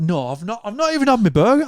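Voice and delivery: high, fast indignant denial; high drunk protest. Retold or imitated. Friend voicing his drunk mate denying he ate, high quick protest. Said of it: "You're like".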